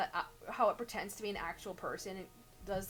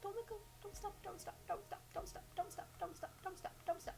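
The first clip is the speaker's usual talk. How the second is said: high, airy romance heroine; breathy heroine voice; 10 semitones higher, 6 dB quieter, faster than usual. Acted. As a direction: play the swooning heroine. Acts romance heroine's lines.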